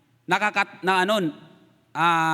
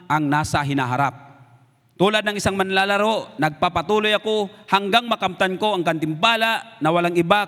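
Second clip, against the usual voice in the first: louder, earnest Bible reading; scripture reading; 3 dB louder than usual. Acted. Pastor reading Philippians to the congregation, declaiming. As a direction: proclaim Paul's words to the church. Reads Paul's letter aloud.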